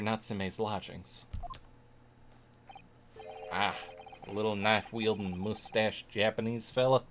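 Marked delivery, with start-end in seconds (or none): 3.5-7.0 put-on lightly drawled Southern American accent; gruff inspector with a hint of Southern US accent. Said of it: "Why am I doing Southern?".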